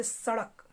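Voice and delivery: सड़क with a flapped ड़, tongue flicked forward; ड़ sound. Shown as a demonstration. Teacher showing students the right सड़क with flapped ड़. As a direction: say सड़क as sa-Rak with a quick tongue flap. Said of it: "इसको सड़क नहीं कह सकते".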